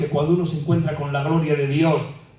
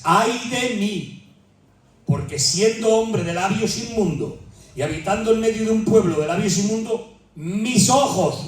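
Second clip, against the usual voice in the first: Isaiah's lament; 4 semitones higher than usual. Acted. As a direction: cry it out as the prophet. Preacher acting Isaiah's lament.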